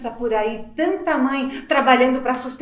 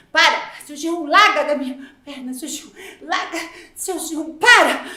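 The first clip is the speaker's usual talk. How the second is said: rising to a loud final para; mock protest; 5 dB louder than usual. Mother acting out fending off seu Gerum, mock protest. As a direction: push the boss away, ending in a yell.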